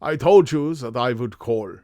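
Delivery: put-on marked German-accented visitor; strong German accent. Masked visitor addressing the detective, German accent. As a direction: say it as a stern German caller. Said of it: "a strongly marked German accent".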